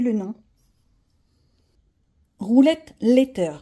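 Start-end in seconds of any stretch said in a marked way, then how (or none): 2.4-3.6 slow English words in a heavy French accent; bad English accent. Real, not acted. Presenting the letter app, slow, badly accented English. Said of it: "Mon accent est horrible".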